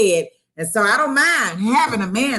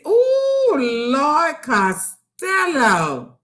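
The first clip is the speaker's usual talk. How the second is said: breathless swoon; 6 semitones higher, much slower than usual. Pretend. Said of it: "let me catch my breath".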